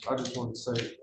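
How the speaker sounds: soft-spoken. Real, not acted. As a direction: say it under your breath, very softly. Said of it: "Speak up, please. You're very soft-spoken".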